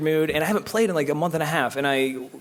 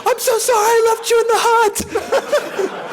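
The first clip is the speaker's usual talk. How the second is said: hammed-up anguish; 6 dB louder, much slower than usual. Retold anguished cry at screen.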